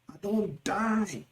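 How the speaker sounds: high, soft, slow wail; agonised moan. Shown as a demonstration. Teacher acting out excruciating pain, weak moaning. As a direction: moan weakly as if dying of pain. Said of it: "When the pain is intense or excruciating".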